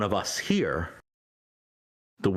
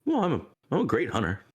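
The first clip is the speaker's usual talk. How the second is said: a lightly voiced proud cat, quick and a bit higher; Mister Socks; 7 semitones higher, faster than usual. Player voicing the cat to the deities, bragging quickly. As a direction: brag it fast like a smug cat. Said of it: "Mister Socks kinda looks up".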